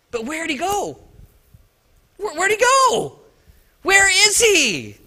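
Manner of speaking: worried woman calling out; frantic searching. Acted. Marys searching for Jesus.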